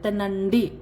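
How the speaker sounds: तिनंडी with the first consonant between त and थ; in-between t sound. Shown as a demonstration. Teacher models the in-between t sound for eat. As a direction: say तिनंडी neither त nor थ. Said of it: "त और थ के बीच की आवाज़ बोलनी है".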